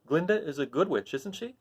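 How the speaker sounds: put-on a child asking hopefully; Dorothy. Dorothy asking about Glinda. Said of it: "asked the child".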